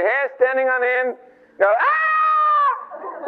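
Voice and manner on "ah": high, held yelp of fright; mock frightened scream. Kid running in from a spooky bedroom, mock terror.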